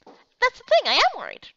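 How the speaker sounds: a high, worried friend voice; concerned friend. Acted. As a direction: press gently but insistently. Same character voice.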